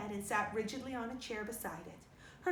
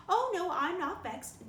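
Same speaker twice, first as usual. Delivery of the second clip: slow, higher, louder protest that she is not vexed; drawn-out affronted huff; huffy denial; 7 semitones higher, 6 dB louder, slower than usual. Acted. Offended neighbour leaving Marilla's house, huffy and slow.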